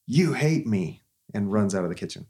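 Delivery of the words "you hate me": put-on sulky little boy. Son storming out after being refused cereal, mock sulky wail. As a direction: throw it back at Mom like a hurt six-year-old. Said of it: "He goes".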